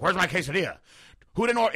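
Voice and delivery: loud, high mock outburst; imitated angry demand. Man hunting for his missing quesadilla, angry. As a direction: holler it, hammed-up outrage. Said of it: "like, mad".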